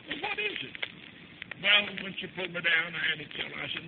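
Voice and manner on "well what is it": high, soft motherly question; gentle coaxing. Retold or imitated. Mother asks her crying child what's wrong, gentle coaxing. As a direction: coax softly in a high voice.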